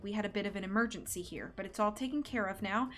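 sweet on top, a dig underneath; quiet silky sarcasm. Acted. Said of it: "in a silky voice".

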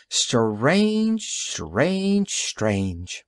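mock puzzlement. Detective taunts mockingly.

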